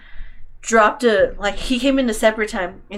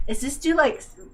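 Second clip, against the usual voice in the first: higher-pitched, disbelieving inner question; retold suspicion, pitched up in disbelief; incredulous; 5 semitones higher than usual. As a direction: puzzle it out in a raised voice. Voices own past suspicion.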